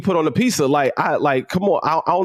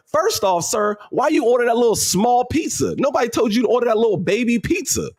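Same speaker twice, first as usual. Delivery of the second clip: higher, incredulous rant; mocking disbelief; 4 semitones higher than usual. Real, not acted. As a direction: tease him for the tiny pizza. Mocking the customer.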